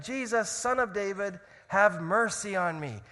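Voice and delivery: crying out. Acted. Blind beggar begging Jesus for mercy, crying out. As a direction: call out slowly for help. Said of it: "So he cries out saying".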